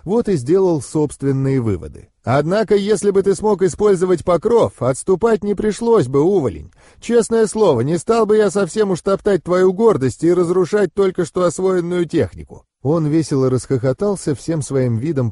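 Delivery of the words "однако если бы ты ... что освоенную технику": higher-pitched mentor needling his pupil; a hint of a taunting mentor; lightly voiced vampire mentor, teasing.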